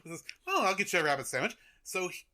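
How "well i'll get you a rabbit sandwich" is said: quick, bad French accent; higher, hurried attempt at French accent. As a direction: rattle it off in mock French accent. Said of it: "I'm not doing a good French accent".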